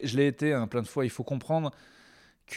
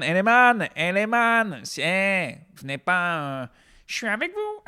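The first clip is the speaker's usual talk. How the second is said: higher, loud slangy plea to rioters; high mock pleading voice; pleading cool guy; 6 semitones higher, 5 dB louder than usual. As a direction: try to sound cool and friendly.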